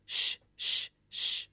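breathy unvoiced shh, drawn out; whispered shush. Poet shushing the woman in her poem, whispered. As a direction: hush the listener like in a cinema.

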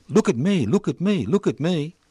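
high, whiny mock voice of an attention-seeker. Mocking anti-vaxxer voice.

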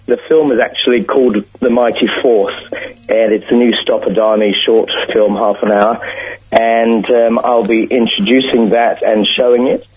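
hoarse, croaky throat. Real, not acted. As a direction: talk through a croaky throat. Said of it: "sorry about my croaky voice".

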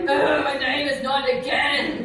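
high, laughing protest "my name is not again"; indignant child. Retold or imitated. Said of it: "And I was like".

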